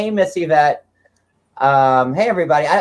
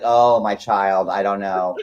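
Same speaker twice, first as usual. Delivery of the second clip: priest; 5 semitones lower than usual. Acted. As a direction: lightly voice a priest, slowing and dropping the pitch. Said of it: "they're gonna be like".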